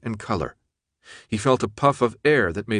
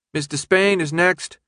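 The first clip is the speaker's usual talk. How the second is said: bored announcer; 8 semitones higher than usual. Acted. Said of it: "their now bored-sounding announcer said".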